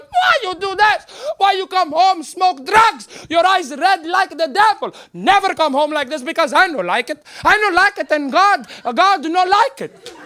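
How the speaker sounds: put-on high accented shouting, slowed for emphasis; hammed-up immigrant mom berating; yelling mother. Mother berates son for smoking, high accented yelling. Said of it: "My mother's yelling at me".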